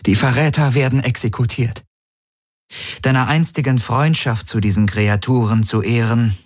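cool, decided announcement; Ylana over the comm. Acted. Ylana tells Garlin over the comm the traitors die, cool resolve.

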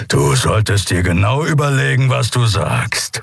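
snapping warning. A narrator's reading. Keru warning the Yadi, menacing rebuke. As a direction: warn with menace, slowing down. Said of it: "fuhr er die Yadi an".

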